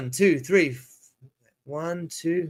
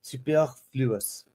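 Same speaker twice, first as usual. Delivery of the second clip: slow, softer attempt at a French accent; 5 dB quieter, much slower than usual. Shown as a demonstration. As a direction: try "superfluous" as if it were French, drawn out. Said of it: "in a French accent because I believe".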